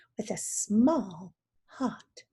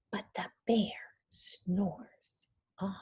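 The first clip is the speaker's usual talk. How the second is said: slow suspenseful whisper; spooky storytime hush; 4 semitones lower, 5 dB quieter, slower than usual. Shown as a demonstration. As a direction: whisper it so the bear won't wake. Teacher builds suspense in storytime.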